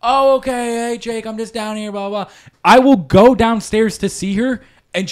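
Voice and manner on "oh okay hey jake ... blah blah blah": imitating grandma. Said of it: "she will acknowledge".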